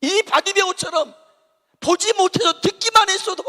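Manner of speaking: high, loud appeal; preacher rousing the church; impassioned preaching. Real, not acted. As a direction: drive the point home fervently. Preaching at full force.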